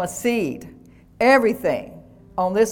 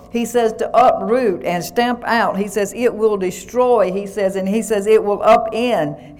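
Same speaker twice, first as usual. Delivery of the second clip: fiery preaching. Acted. Pastor thundering God's words to the saints, emphatic preaching. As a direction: proclaim God's promise with rising force.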